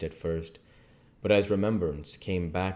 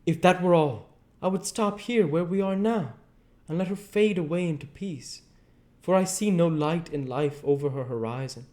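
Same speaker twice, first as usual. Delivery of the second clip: high, loud, solemn professor voice; grave old professor; 11 semitones higher, 6 dB louder than usual. Acted. Professor answering his friend with a stern look, high loud and grave. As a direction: speak gravely of letting her fade away.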